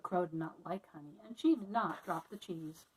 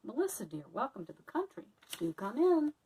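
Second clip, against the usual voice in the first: delighted welcome; 3 semitones higher than usual. Acted. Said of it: "Annie was delighted".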